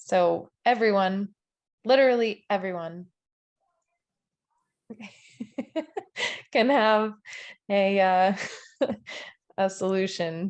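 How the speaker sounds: words broken up by giggling. Explaining solutions while someone's cat plays on camera; giggling while talking. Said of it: "Sorry, I'm giggling".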